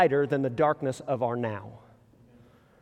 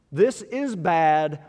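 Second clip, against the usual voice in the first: weary complaint; much slower than usual. Retold or imitated.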